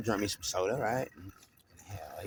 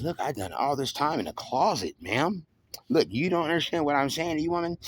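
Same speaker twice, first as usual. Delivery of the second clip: heated retelling that climbs higher and louder; a heated outburst at the woman, rising as it goes; retelling a shouting match with the woman who framed him; retold argument; 4 semitones higher, 3 dB louder than usual.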